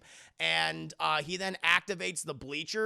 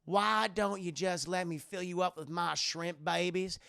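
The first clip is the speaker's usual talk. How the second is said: alien queen; 4 semitones higher, 6 dB louder than usual. Retold or imitated. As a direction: coax him like a creepy queen tempting a kid. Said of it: "And she's like".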